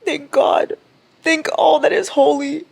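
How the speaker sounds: high, bright cry of relief; relieved. Real, not acted. Reader relieved the character survived, high cry of relief. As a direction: thank the heavens with relief.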